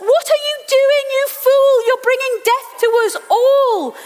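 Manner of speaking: building from hushed to high outraged cries; sailors' disbelief rising to frantic yelling; sailors panicking at Jonah. Acted. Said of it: "these poor soldiers are like".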